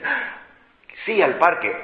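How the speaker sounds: high gasping "Ah" then happy yes; mock-thrilled child's squeal of delight; enthusiastic child. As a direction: play the kid lighting up with joy. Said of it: "Se entusiasma y dice".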